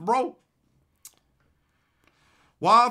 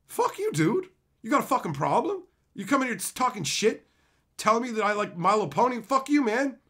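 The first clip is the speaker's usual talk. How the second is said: mock angry retort; 3 semitones higher than usual. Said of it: "And I'm like".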